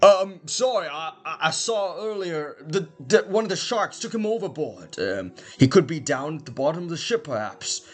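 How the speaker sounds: high, hesitant voice; timid crew member. Acted. Sheepish sailor reporting the shark attack, high and hesitant. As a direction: nervously own up from the back. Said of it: "somebody back there just goes".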